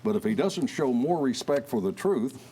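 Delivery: measured news-anchor read; radio newscaster. Acted. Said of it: "like a radio newscaster".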